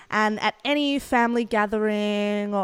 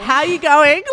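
broad Aussie greeting; 5 semitones higher, 12 dB louder, slower than usual. Retold or imitated. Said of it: "yeah, no, I'm from Australia".

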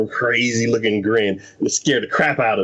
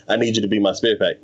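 pushy exorcist; 5 semitones lower, faster than usual. Retold or imitated. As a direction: lower and faster, a lightly voiced pushy exorcist. Exorcist voiced in retelling.

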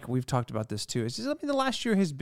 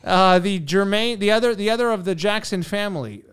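put-on old radio announcer; 4 semitones higher, 7 dB louder than usual. Announcing guest like broadcast.

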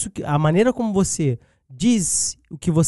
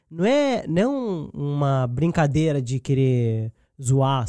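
ordinary talk

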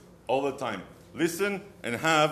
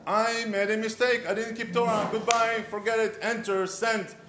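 dismissive quick apology; 7 semitones higher than usual. Retold or imitated. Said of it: "Why don't we just say".

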